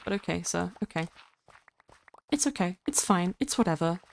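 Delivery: quiet, putting on a brave face; mock resignation. Viewer who misses the Minecraft videos, mock resigned. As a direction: softly pretend not to mind. Pretends to accept losing Minecraft content.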